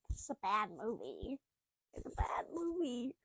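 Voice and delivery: hushed, deadpan whisper; whispered verdict. Retold or imitated. Reacting to the movie, whispered. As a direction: mutter the verdict under your breath.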